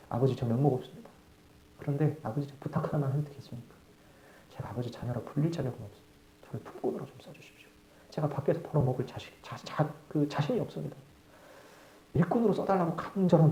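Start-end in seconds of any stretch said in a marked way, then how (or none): 0.1-11.0 sobbing plea. Acted. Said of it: "꺼이꺼이거리면서".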